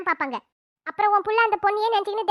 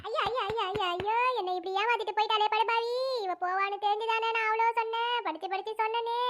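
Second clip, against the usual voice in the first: put-on keen softly over the runaway girl; quiet wailing lament; 5 dB quieter than usual. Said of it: "இப்ப எதுக்கு அழுவுற மாதிரி நடிக்கிறீங்க?". (மெல்லிய அழுகைக் குரலில் ஒப்பாரி)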